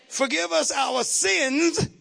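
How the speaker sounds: slow, drawn-out forgive us our sins; slow stressed reading. Shown as a demonstration. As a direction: lean on each word slowly.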